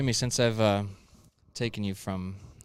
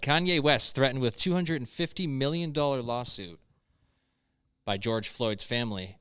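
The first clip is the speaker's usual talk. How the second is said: reading a headline and story aloud; news read; 2 semitones higher than usual. Real, not acted. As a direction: read it out like a news item, with emphatic stresses.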